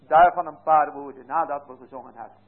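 ordinary talk, nothing marked

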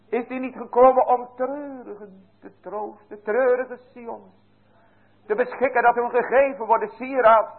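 high, fervent pulpit voice, rising through the questions; rousing sermon climax, carried high; fervent preaching. Acted. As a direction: preach it out to the congregation with full fervour. Preaching at full force.

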